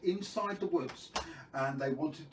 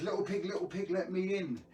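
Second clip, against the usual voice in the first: lightly voiced wolf, pitched higher; wolf calling; 3 semitones higher than usual. Wolf asking the second pig to open up, lightly voiced calling. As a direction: call through the door in higher sing-song. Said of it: "And he says".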